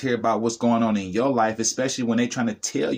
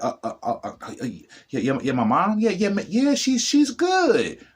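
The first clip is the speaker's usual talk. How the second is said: stammering, caught off guard, rising much higher at the end; flustered stuttering; 9 semitones higher than usual. Retold or imitated. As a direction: imitate someone stunned by being asked how they really are. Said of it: "They might even start stuttering".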